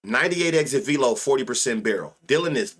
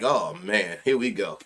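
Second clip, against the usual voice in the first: mock sigh; 5 semitones lower than usual. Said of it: "he get to spamming that bitch like".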